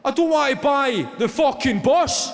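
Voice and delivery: high, loud outraged yell; losing it, shouting. Retold or imitated. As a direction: lose your temper at the driver. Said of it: "the guy just lost it".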